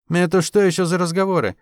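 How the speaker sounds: a touch of menace from the mother; mother's warning tone rising; threatening. A narrator's reading. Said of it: "зазвенели угрожающие нотки". (мать с лёгкой угрозой в голосе)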